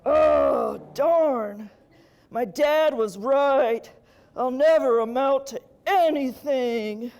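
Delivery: slow, loud dejected devil; sulky devil. Retold or imitated. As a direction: mope like a loser son.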